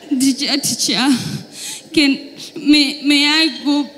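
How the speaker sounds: mock desperate schoolkid; desperate pupil.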